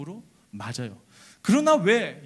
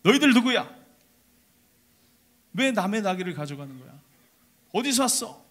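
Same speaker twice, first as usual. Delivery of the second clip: owner's shout; 3 semitones higher, 4 dB louder than usual. Acted. The owner catches the disciples at his donkey, angry shout. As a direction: yell at the thieves. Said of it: "이런 막 외침이 들리는 거예요".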